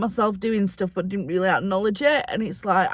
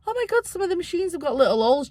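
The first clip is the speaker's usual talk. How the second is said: excited; 9 semitones higher, faster than usual. Retold or imitated. Retold excited thought.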